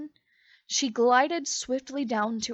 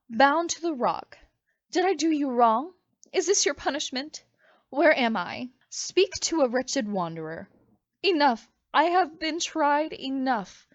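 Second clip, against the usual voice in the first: distraught crying out; 4 dB louder than usual. Acted. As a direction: cry out in desperate misery. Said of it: "She cried".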